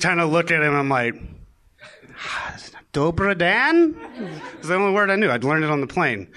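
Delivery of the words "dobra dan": whispered, slow, unsure greeting; timid whisper. Retold or imitated. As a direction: breathe it out nervously. Greeting a skinned goat's carrier.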